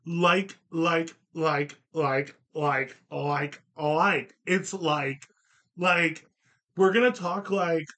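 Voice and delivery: lightly voiced Valley Girl likes; mock Valley Girl filler chain. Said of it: "turned into a Valley Girl circa nineteen eighty-nine".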